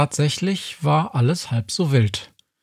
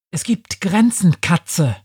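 sharp, raised angry hiss; 5 semitones higher, 3 dB louder than usual. Acted. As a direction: hiss a warning at the cat. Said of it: "zischte sie".

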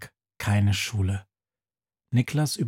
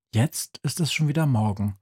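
ordinary talk, nothing marked

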